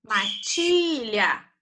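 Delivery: matilha drawn out slowly, syllables spaced; teacher sounding out slowly. Shown as a demonstration. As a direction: spell out matilha by ear for the class. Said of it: "paroxítona".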